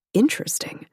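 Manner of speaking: breathy, almost whispered thought; inner thought. Acted. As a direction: think it to yourself, barely voiced. Claire's private thought.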